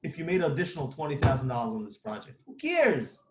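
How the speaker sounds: fired-up rant. Real, not acted. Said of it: "now I'm gonna talk like this".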